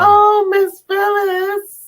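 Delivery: high, loud, drawn-out sudden realization; oh no, we forgot her; surprised. Real, not acted. Suddenly remembering a skipped guest.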